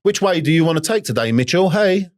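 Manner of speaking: high, teasing voice of the parasite in his head; sing-song it like a sly tempter calling his name; tempting devil voice. Retold or imitated. The parasite in his mind taunts Mitchell, high teasing tempter voice. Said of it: "it's the devil".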